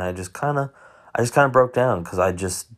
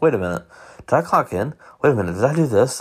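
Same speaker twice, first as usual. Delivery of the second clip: quick, higher-pitched mock worry; anxious brain voice; 5 semitones higher, faster than usual. Host voicing their ADHD brain interrupting, mildly panicky. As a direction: imitate a racing, second-guessing inner voice. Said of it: "my A D H D brain would switch on".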